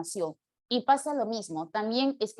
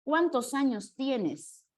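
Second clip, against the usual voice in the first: slow dictation; slower than usual. Shown as a demonstration. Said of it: "algo como esto".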